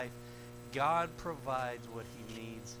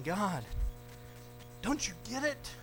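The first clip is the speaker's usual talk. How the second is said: exasperated complaint; 12 semitones higher, 9 dB louder than usual. Acted. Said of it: "He's saying".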